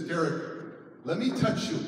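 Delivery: softly spoken, tender appeal; gentle request. Retold or imitated. Counselor reaching out to wary Derek, gently. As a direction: ask permission gently.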